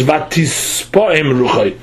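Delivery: slow "Vatispoim", dwelling on the added S; "Vatispoim" said slowly with its extra S lengthened; extra S sound. Shown as a demonstration. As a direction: draw out the S in "Vatispoim". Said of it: "it says with an extra suf".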